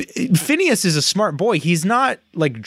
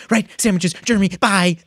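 manic quote; 4 semitones higher than usual. Retold or imitated. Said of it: "very extreme facial expressions and goes".

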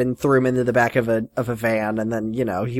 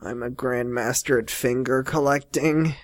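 mock soft Grant; 7 dB quieter than usual. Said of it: "he says".

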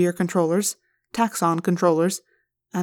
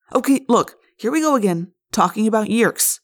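impatient; 3 semitones higher than usual. Acted. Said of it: "Jake said impatiently".

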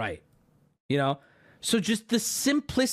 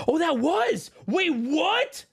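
sudden realization; 9 semitones higher, much slower than usual. Real, not acted. Finds the Taco Bell photo.

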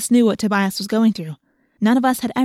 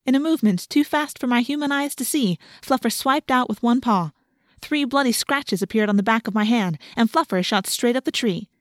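ordinary delivery

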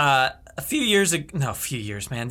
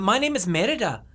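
Merida; 3 semitones higher than usual. Acted. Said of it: "I can only do Disney movies".

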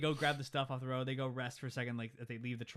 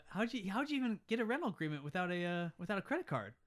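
lightly voiced baffled traveller, pitched up; mock incredulous question; 6 semitones higher than usual. Traveller asks about the rental agreement, mock incredulous. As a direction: act out a mild puzzled disbelief. Voicing film character's amazed question.

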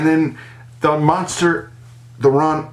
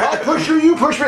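put-on childish voice; 12 semitones higher than usual. Voicing kids making up.

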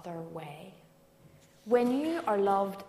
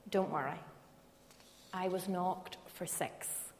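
calm. Retold or imitated. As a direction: settle her down gently. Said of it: "My dad very calmly said".

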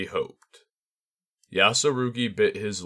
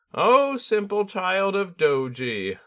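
high, slow hushed bird voice; whispering tengu; 11 semitones higher, 3 dB louder than usual. A narrator's reading. Tengu gently addressing the awed student, slow and hushed. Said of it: "the Tengu whispered".

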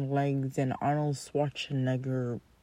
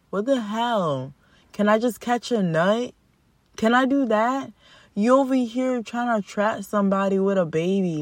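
heated rant; 5 semitones higher than usual. Real, not acted. Ranting at trapping men.

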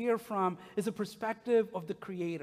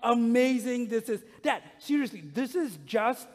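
put-on louder, breathless kid rushing through it; excited son; 3 semitones higher, 5 dB louder than usual. Son insisting dad admire the color patterns, excited. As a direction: gush like a boy proud of his creation. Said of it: "And he's like".

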